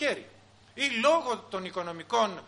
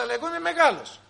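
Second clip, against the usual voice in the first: loud, much higher mock yell; hammed-up dad pulling rank; father shouting; 9 semitones higher, 9 dB louder, faster than usual. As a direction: bellow it to end the argument. Father pulls rank loudly.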